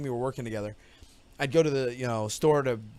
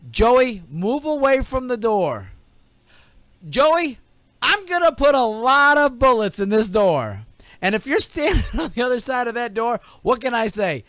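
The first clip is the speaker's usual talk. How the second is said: loud, higher threatening shout; cop yelling; 7 semitones higher, 7 dB louder than usual. Retold or imitated. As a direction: warn him through the door, loud. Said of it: "He goes".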